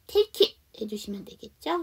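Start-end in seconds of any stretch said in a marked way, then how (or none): 0.1-0.6 "Take it" joined as one word; linked sounds. Shown as a demonstration. Teacher demonstrates linking, joined "Take it". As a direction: carry the K of "Take" into "it". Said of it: "take 다음에 it이니까 연음할게요".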